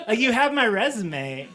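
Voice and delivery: exasperated. Acted. Job applicant arguing back at interviewers, exasperated. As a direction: build into loud disbelief.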